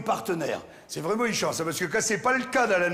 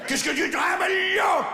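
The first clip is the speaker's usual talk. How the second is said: put-on loud, high-pitched squawk in Champagne accent; 11 semitones higher, 3 dB louder than usual. Big female spider challenging the male, Champagne-accented shout. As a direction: bellow it in a hammed-up rural Champagne accent. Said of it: "je vous ai fait une araignée champenoise".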